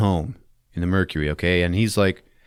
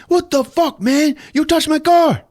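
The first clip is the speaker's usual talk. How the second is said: high, loud punk voice; mock thug; 5 dB louder, slower than usual. Lowrider driver yelling at Cobra, high mock thug. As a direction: sneer it out. Angry car owner.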